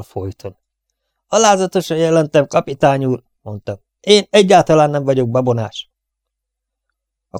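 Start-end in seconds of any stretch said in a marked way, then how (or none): 1.3-3.2 dutiful soldier. Acted. Soldier reporting to captain. 4.0-5.9 firm denial. Acted. Soldier denies to captain.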